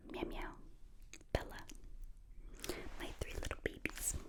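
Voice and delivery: usual speaking voice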